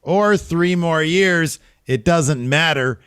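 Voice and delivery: high, drawn-out promo delivery; Kevin Owens. Retold or imitated. Wrestler retold promising to keep fighting, high drawn-out promo voice. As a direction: stretch the words out high and slow. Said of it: "He says".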